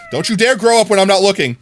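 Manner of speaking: mock scolding. Streamer scolding baby mobs, playful loud warning. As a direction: scold the babies with mock sternness.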